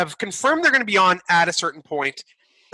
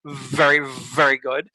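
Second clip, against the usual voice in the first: put-on Norwegian accent; 4 semitones lower than usual. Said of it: "that's the accent he uses".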